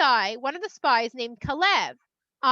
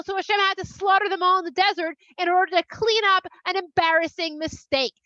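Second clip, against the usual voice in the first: sarcastic jeer, rising higher as it goes; mocking; 3 semitones higher, 3 dB louder than usual. Egypt making fun of Hashem's failure, scornful mocking. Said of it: "They're gonna make fun of you".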